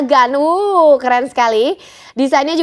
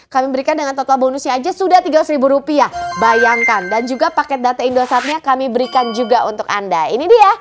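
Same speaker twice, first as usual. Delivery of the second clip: hard-sell TV shopping pitch; infomercial. Acted. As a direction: push the deal, eager and urgent. (gaya iklan jualan yang bersemangat)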